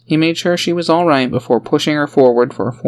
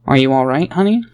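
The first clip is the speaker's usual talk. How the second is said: careful. Acted. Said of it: "he asked carefully".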